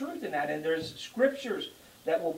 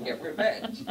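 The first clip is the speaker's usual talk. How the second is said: laughing; 3 semitones higher than usual. Pretend. Preacher mocking the congregation, laughing aloud. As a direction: tease them with a giggle. Mock advice over a cheeseburger.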